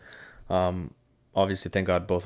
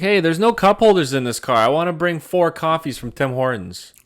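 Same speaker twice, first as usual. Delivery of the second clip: high, louder mock dad voice; imitating dad; 9 semitones higher, 7 dB louder than usual. Son imitating his dad calling about coffees, high and cheery. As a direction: play the dad, breezy and oblivious. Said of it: "He's like".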